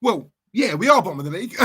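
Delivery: mock concession cracking into laughter; laughing mimicry. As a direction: imitate his admission, then crack up. Mocking repeat, breaking into laughter.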